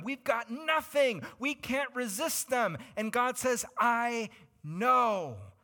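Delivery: loud, high-pitched fervent preaching; preaching at full force. Acted. Preacher stirring the congregation at full force. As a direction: build it up like a revival preacher.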